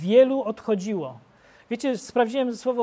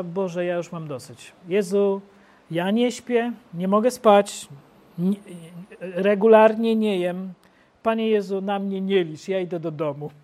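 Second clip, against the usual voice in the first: whining worn-out believer; 3 semitones lower, 3 dB louder than usual. Acted. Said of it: "powiesz wtedy do Pana Jezusa".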